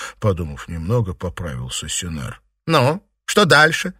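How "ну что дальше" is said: loud, drawn-out prodding question; hurrying him on. A narrator's reading. Mistress urging the hesitant servant on, hurrying him. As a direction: press impatiently, slow and high. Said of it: "торопила его Фэнзе".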